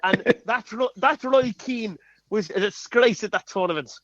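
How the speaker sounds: a light Irish lilt on the Mick McCarthy impression. Mimicking the Irish manager for a guessing game, lightly Irish. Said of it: "that was me doing an impression".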